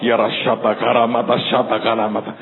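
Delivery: low-pitched imitation of praying in tongues. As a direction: recite tongues under a retold panic. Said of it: "sambil bahasa roh".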